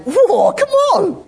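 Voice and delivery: high, drawn-out excited outburst; acted amazement. Reader hit by a Bible passage, acted excitement. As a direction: let the wonder burst out, stretched. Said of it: "sometimes you just get there and you".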